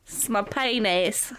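slow, badly faked Australian accent. Co-host joking after a slip, terrible Australian accent. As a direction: drag it out in mock Australian. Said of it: "Just an Australian accent".

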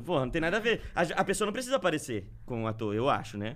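ordinary talk

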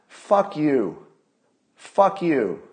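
angry outburst. Real, not acted.

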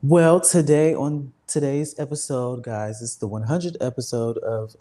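talking with a mouth full; words round a bite of grapes; eating grapes. Real, not acted. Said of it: "I'm sorry, I'm eating grapes".

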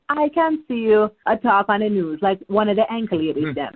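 imitating her Jamaican grandma's phrasing gently; grandma's Jamaican accent. Grandma picturing her on the news, light Jamaican accent. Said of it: "you know, in her accent".

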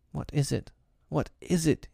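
high, hushed, frightened question through tears; a boy crying for the first time; tearful bewilderment. Acted. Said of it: "he caught his breath and sobbed".

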